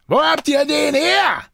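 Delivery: high, harsh shouted question; brusque shout. A narrator's reading. Jean questions the men outside, brusque shout. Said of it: "fragte Jean barsch".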